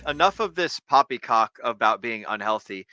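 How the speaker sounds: put-on blustering old officer, indignant; pompous sputtering colonel. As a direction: huff and sputter like a stuffy colonel. Pompous objection to health talk.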